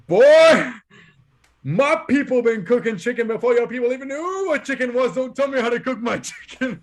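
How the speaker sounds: put-on loud, high outburst from an offended old man; indignant old Southern preacher. Old man scolds young salesman about cooking chicken, indignant Southern preacher. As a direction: imitate an outraged Southern reverend scolding a kid. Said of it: "he sounds like a reverend".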